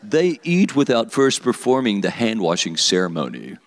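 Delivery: pompous imitation of a religious teacher; lightly put-on Pharisee accusation; mock Pharisee voice. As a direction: recite it as a self-important Pharisee. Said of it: "that's how they said it".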